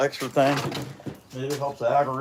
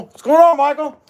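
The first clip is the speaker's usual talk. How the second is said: loud, high call-out to a friend; loud greeting; 12 semitones higher, 10 dB louder than usual. Real, not acted. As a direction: call out a big hello. Greeting Michael in the video.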